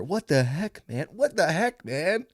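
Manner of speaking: whiny, pitching up on what; mock your own whiny yell; lightly whiny loser voice; whiny repeat. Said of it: "All whiny like that".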